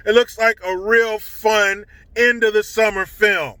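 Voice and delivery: slowed, sneering fake enthusiasm; sarcastic cheer. Real, not acted. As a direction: pretend it all sounds delightful. Mocking the film's cheerful tone.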